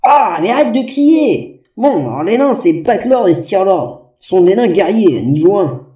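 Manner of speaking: slow, booming barrel echo. Acted. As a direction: speak from inside a barrel. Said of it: "ta voix débarque des profondeurs infernales".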